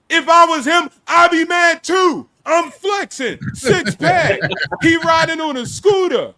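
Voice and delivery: high, loud mock outrage; boastful retort. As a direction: shout it like a hyped-up brag. Acts out his boastful retort.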